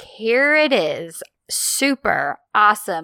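slow, mildly sarcastic mock enthusiasm; lightly acted sarcastic cheer. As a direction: imitate dry, drawn-out fake delight. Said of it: "sarcastic, and he's like".

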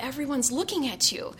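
a touch of worried unease; mildly nervous. Retold or imitated. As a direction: lightly voice a nervous, self-conscious girl. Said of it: "she said nervously".

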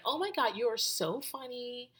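put-on, high-voiced amazement; imitating amused friend. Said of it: "she's like".

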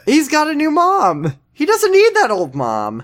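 giggly tearful joke; laughing. Real, not acted.

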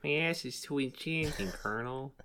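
a hint of a gruff soldier on radio; Solid Snake voice. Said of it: "Is that your snake voice?".

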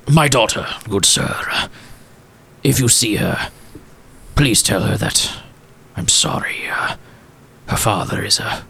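lightly voiced old gent, hushed on I'm sorry; a hint of held-back tears from a regretful father; tearful old gentleman. Walsworth gives daughter's picture.

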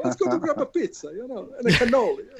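lightly Italian-American, high and hushed; hint of a gangster luring you out; mock mobster. Inviting someone out for pizza in a light mob voice.

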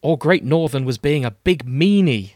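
put-on childlike schoolboy whine; Harry Potter. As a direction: pipe up like an innocent little brother. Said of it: "Gadwell gets the Harry Potter voice".

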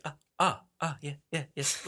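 lightly imitated halting verbal quirk; low, soft stammered filler words; Jeff Goldblum. Host showing a celebrity's speech quirks, mild impression. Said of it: "like, Jeff Goldblum, he has, like".

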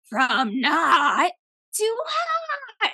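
high, drawn-out mock wail; exaggerated high-pitched impression, last word soaring; imitating scared friend. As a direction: stretch the title into a squealed taunt. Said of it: "and he would be like".

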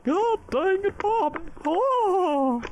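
very high, loud Texas twang squeal; Texan accent. Pretend. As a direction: shriek it like a cartoon Texas dad. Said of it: "one accent I can do really well".

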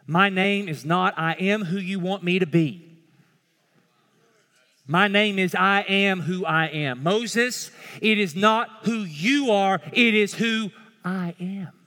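forceful, each phrase driven home; emphatic declaration. Acted. Preacher as God correcting Moses, forceful and commanding.

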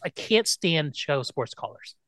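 ordinary talk

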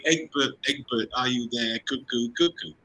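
lightly voiced cuckoo call; playful mock bird cry. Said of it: "It was something like".

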